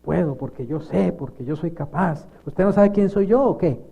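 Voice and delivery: mock self-important boasting; cocky show of "I can do it"; boastful ego. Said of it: "El ego".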